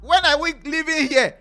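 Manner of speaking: high and loud, fed-up whine; hammed-up eager to get out; impatient mock plea. Husband to therapist and wife, a loud, high, fed-up whine to leave. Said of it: "The guy is like".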